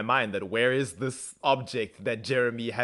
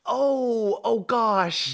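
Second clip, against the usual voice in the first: mock reluctance; 10 semitones higher, 4 dB louder, much slower than usual. Acted reluctance to help.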